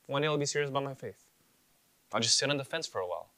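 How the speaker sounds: a hint of a carefree young believer putting off faith; casual doubter. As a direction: play the easygoing fence-sitter. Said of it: "Here's what I'm afraid we ask".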